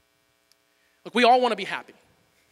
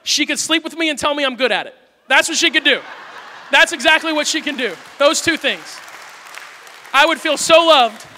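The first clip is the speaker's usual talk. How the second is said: exasperated blurt; 5 semitones higher, 4 dB louder than usual. Retold or imitated. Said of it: "I said".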